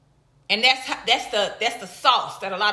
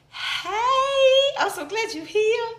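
excited greeting; 11 semitones higher, slower than usual. Real, not acted. Greeting live viewer.

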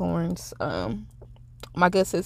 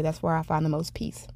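soft whisper; 6 dB quieter than usual. Real, not acted. Confiding to viewers where she finds peace, whispered. Dreamy aside about her joy.

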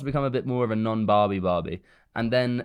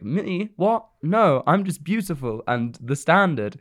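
high-pitched disbelief, then slower protest; mock-offended Barbie; 4 semitones higher, slower than usual. Barbie answers the girl who hates her, mock offended. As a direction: squeak the questions, then stretch the self-praise. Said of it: "And she's like".

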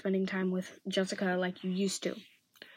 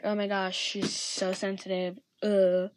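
mildly exasperated mock complaint, slowing down; eye-rolling dismissal. Shown as a demonstration. Acting Jessica dismissing a hurt friend, eye-rolling. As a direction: complain as if rolling your eyes, end in "uh". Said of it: "rolling your eyes, being like".

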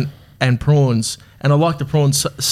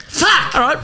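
mock fed-up groan; 12 semitones higher than usual. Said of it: "you're like".

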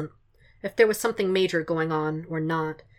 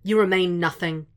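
booming Fisk; 4 dB louder than usual. Acted. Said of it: "Fisk's voice booms".

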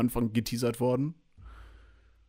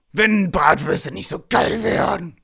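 longing; 6 semitones higher, 5 dB louder, slower than usual. Real, not acted. Craving sausages, drawn out.

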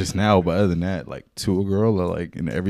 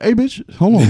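mock harsh snap; 14 semitones higher, 6 dB louder than usual. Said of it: "I wouldn't be like".

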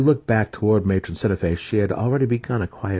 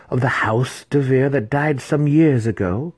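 intrigued matron; 7 semitones higher, 5 dB louder than usual. Acted.

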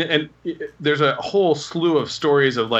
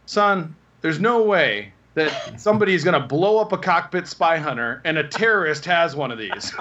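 put-on older cop; 2 semitones higher than usual. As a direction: scold the rookie like an old hand. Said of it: "He turns and goes".

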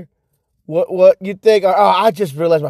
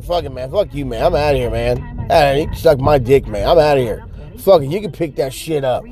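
low, unbothered retort; lightly acted low grumble; dismissive brush-off; 3 semitones lower than usual. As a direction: toss it back while walking off. Acts his dismissive walk-off.

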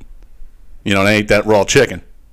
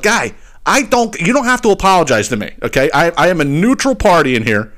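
exasperated retort; 4 semitones higher than usual. Retold or imitated. Customer telling the son he is neutral, exasperated. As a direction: plead to be left out of it.

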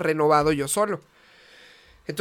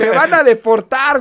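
mock panic; 4 semitones higher, 6 dB louder, slower than usual. Mock panic, laughing group.

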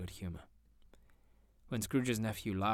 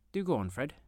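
eager; 7 semitones higher, 6 dB louder than usual. Acted. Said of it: "clapping her hands".

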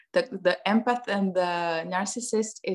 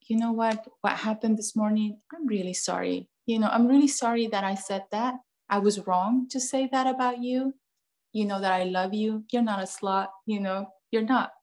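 put-on sincere apology to child. Shown as a demonstration. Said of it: "you go to your child and you said".

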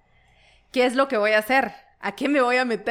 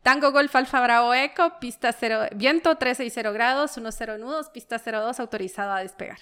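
air traffic control radio. Shown as a demonstration. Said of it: "Voy a inventarme una matrícula".

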